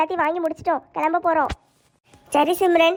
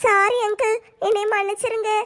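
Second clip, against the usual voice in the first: slightly raised, pleading apology; tearful apology; 3 semitones higher than usual. Acted. Daughter-in-law apologises to her uncle, tearful. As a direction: beg forgiveness on the edge of tears.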